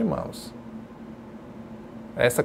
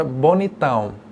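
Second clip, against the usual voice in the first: bonitão punched with a falling end; augmentative expression; 2 semitones lower, slower than usual. Shown as a demonstration. Teacher showing the strongest grade of pretty, emphatic bonitão. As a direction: land firmly on bonitão as very handsome. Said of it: "ele vai ter sua variação".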